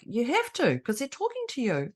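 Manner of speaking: a hint of a sixteen-year-old; lightly voiced teenage girl. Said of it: "But she was just like".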